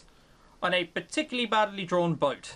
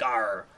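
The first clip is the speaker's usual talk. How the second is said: pirate arr; 9 semitones lower than usual. Shown as a demonstration. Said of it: "speak out of the side of your mouth".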